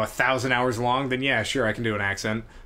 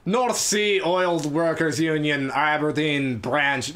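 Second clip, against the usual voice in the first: put-on Scottish accent; slower than usual. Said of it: "in your best Scottish accent".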